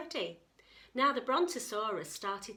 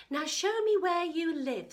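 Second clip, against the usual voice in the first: eager; 8 semitones higher, 7 dB louder than usual. Acted. Katie eager.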